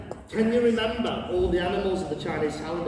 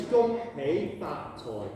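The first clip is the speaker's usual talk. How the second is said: slow, measured phrase for learners; slow demonstration; 3 semitones lower, much slower than usual. Shown as a demonstration. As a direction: say each syllable slowly and separately. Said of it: "the phrase is".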